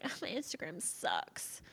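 mock complaint in a whisper; hushed, imitated self-pitying gripe. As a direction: whisper it as someone else's grumble. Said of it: "They're like".

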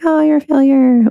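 high mocking inner-critic voice; little inner voice. Self-critic popping up after a goal, little inner voice. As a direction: pitch it up as a nagging little voice. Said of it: "that little voice pop up".

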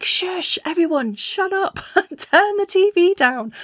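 half-laughing, fed up, hush everyone; tired irritation. Retold or imitated. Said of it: "everything feels too loud and you're like".

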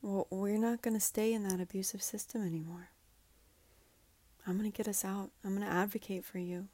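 soft, half-whispered vow; quiet reassuring promise to the younger self; tender promise. Pretend. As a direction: promise it gently to a child. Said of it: "make a promise to your younger self".

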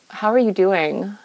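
gently checking in on yourself; gentle asking. Retold or imitated. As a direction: ask it tenderly, almost whispered. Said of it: "what about asking?".

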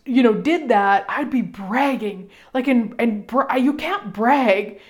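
mock fretful plea, slowing at the end; retold worried self. Pleading with Gary at the microphone, mock fretful. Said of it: "because I just said".

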